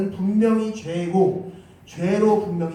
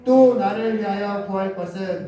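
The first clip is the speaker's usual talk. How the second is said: even, measured recitation; scripture reading. Acted. Leading the congregation in the verse, scripture reading. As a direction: read the verse out formally, drawing out the amen.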